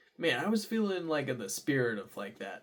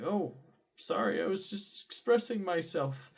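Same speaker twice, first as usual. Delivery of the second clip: defensive apology; 8 semitones higher, 4 dB louder than usual. Retold or imitated. Acted apology to scolding CSR.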